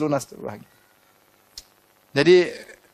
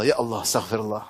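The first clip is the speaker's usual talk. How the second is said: murmured prayer; 6 semitones lower, 6 dB quieter than usual. Shown as a demonstration. Acts a person remembering Allah.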